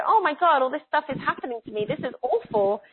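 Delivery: a playful impression of panicked ego; mock panic. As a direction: wail it like an overwhelmed ego. Ego panicking over ascension.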